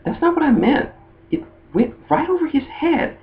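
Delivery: high-pitched girly imitation; Lyra. Matchmaker commenting that he missed it, high mock girl voice. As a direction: remark aside in a squeaky put-on voice. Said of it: "And she makes a comment like".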